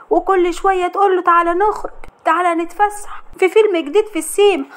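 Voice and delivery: mother-in-law's ear, whispered poison; sly gossip. Acted. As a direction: stir trouble with sly glee. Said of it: "بتقول لها بخبث".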